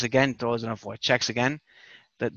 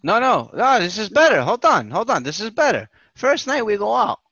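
louder, eager rush to top the story; excited cut-in; 5 semitones higher, 5 dB louder than usual. Real, not acted. Cutting off his friend's story, loud and eager. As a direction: jump in, this one's better.

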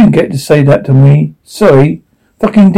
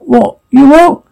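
shocked; 9 semitones higher, slower than usual. Acted. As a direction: blurt it out in shock. Shocked reply on radio.

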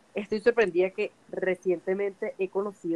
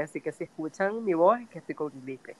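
stuffy nose from a cold; talking through a head cold; nasal voice; 2 semitones lower than usual. Real, not acted. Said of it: "tienes voz nasal".

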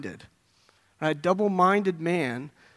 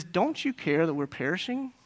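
quietly reproachful question; a soft, acted accusation ending on a rise; accusatory; 5 dB quieter than usual. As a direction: put the blame in softly. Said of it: "in a very accusatory way".

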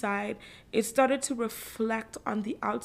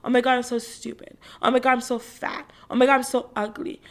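mock self-criticism; 4 dB louder than usual. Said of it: "tendencies to be like".

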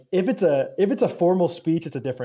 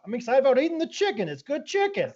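put-on higher, deadpan kid voice; mock a bored twelve-year-old; lightly voiced matter-of-fact kid; sarcastic kid; 8 semitones higher than usual. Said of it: "He's like".

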